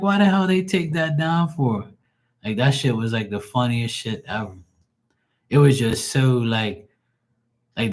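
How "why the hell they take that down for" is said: indignant disbelief. Retold or imitated. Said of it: "I'm like".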